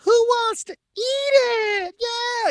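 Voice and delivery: high, slow rock-star shout; a glam rock musician's stage persona. Retold or imitated. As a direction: belt it like a glam rocker on stage. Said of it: "in the style of his stage".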